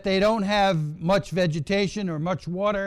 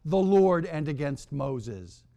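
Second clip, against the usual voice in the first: desperate repentance; 2 semitones higher than usual. Acted. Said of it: "They come to their senses in verse seven".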